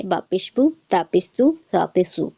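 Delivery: recitation drill with "बू", "तू", "सू" kept brief; short quick vowels. Shown as a demonstration. Teacher demonstrating pesh to students, short quick vowels. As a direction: end each on a quick, unstretched oo. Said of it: "जल्दी पढ़ेंगे".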